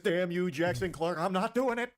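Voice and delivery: slow fist-shaking villain curse; lightly hammed cartoon villain defiance; sputtering foiled villain. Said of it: "Shaking his fist".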